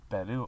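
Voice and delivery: Peru with one light R, not rolled; single tapped R. Shown as a demonstration. Explaining to a friend there's one R, untrilled Peru. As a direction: tap the R once in Peru. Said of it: "only has one R".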